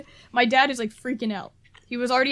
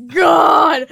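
loud crying groan; exasperated shout; 2 semitones higher, 10 dB louder than usual. Retold or imitated. Teen mortified by parents yelling in airport, loud exasperated groan. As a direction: cry out in despair.

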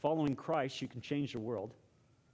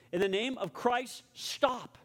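higher-pitched mock shout, no real volume; restrained imitation of a monk shouting; retold shout; 6 semitones higher, slower than usual. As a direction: call out a command, pitched up but contained. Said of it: "and shouting".

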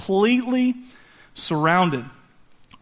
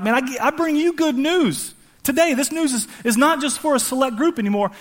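high-pitched, eager announcing; urgent, joyful angelic announcement; excited proclamation; 6 semitones higher than usual. Acted. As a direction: herald great news to people who never expected it. Acted angels announcing good news.

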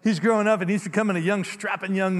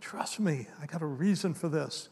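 quiet God voice; 5 dB quieter than usual. Shown as a demonstration. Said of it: "that's what God would say".

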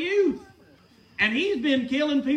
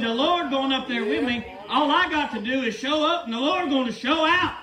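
laughing confidence. Acted. David voiced with laughing confidence.

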